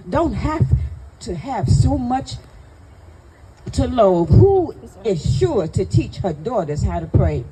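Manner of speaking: proud, rhythmic spoken-word delivery; emphatic spoken-word poem with rolling cadence; poem recitation. Acted. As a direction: recite it as a tribute, phrase by phrase. Recites poem on first lady.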